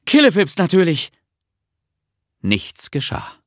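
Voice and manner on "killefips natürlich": put-on raised, loud boy's recital; loud repeated word. A narrator's reading. Bertil tries out the magic word he was given, loud recital. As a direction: repeat it loudly, pitched up, falling at the end.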